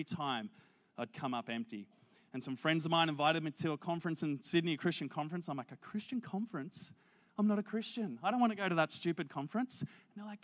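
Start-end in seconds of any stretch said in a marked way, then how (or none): 5.7-9.8 higher-pitched reluctant protest; retold scoffing. Young man objecting to friends inviting him to a conference, scoffing. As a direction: balk at the invitation, pitch lifted.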